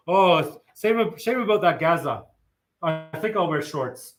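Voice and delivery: lightly voiced laid-back Kiwi; casual Kiwi drawl, mildly done; broad Kiwi accent. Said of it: "my impression of a Kiwi".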